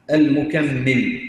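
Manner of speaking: المكمل drawn out slowly and firmly; stretched term. Shown as a demonstration. Teacher drawing out المكمل for students to repeat. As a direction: spell out المكمل slowly, syllable by syllable. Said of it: "teacher stretches key term".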